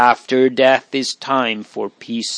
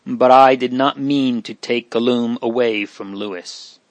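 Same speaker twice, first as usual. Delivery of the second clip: gasped plea. Acted. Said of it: "gasped out".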